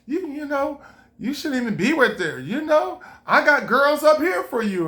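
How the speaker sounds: a hint of a smooth celebrity pitch; Michael Jackson impression. Michael Jackson on stage telling him to ditch her, lightly mimicked. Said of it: "Michael Jackson was like".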